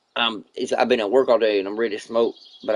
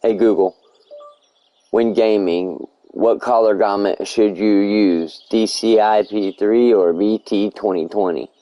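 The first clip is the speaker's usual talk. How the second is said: voice command; 5 dB louder than usual. Acted. Same command repeated, reworded.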